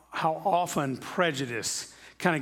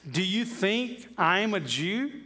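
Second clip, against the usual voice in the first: Pilate's scornful question; 4 semitones higher, slower than usual. Retold or imitated. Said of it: "He says".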